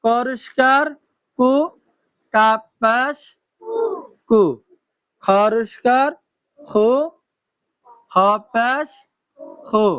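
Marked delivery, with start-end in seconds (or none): 0.0-1.5 "করিষ্কার" rising at the end, then "কু" with a u vowel; syllable demonstration. Shown as a demonstration. Teacher giving learners an example, sounding out "কু". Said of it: "রসা উকারের মতন উচ্চারণ হয়". 5.2-6.9 "খরিষ্কার" rising at the end, then "খু" with aspirated kh and u; syllable demonstration. Shown as a demonstration. Teacher giving learners an example, sounding out "খু". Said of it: "রসা উকারের মতন উচ্চারণ হয়".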